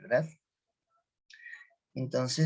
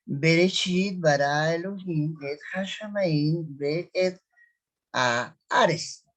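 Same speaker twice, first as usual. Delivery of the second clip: slow Hebrew reading; slower than usual. Shown as a demonstration. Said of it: "Entonces decimos".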